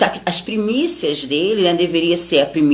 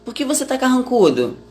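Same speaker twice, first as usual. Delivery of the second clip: higher, earnest fatherly questioning; a lightly voiced parent-like God calling out his son; God questioning Cain like a father, lightly voiced; gently scolding God; 6 semitones higher than usual. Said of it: "E Deus tá perguntando pra Caim".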